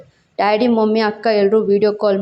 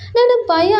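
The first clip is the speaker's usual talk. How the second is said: much higher small scared voice; frightened girlfriend; 12 semitones higher, slower than usual. A narrator's reading. Girlfriend confessing her fear, high and small.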